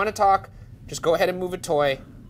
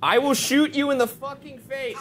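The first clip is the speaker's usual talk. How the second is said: high, raised voice; high-pitched bravado; defiant threat; 6 semitones higher than usual. Real, not acted. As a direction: threaten the thing in the dark. Threatening the demon.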